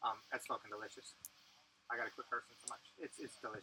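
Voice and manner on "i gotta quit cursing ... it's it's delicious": whispered, softer aside; whispering. Real, not acted. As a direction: whisper it to yourself. I gotta quit cursing.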